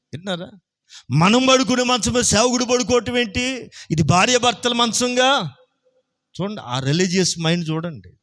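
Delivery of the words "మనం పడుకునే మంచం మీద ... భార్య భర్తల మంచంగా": mock indignation. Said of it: "wife's indignant speech".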